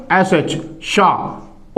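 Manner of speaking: "एस एच, शाह" spoken very slowly and softly; slow letter blending. Shown as a demonstration. Teacher blending two consonants for students, slow and soft. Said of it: "शुरू में ये दो consonant हो गए".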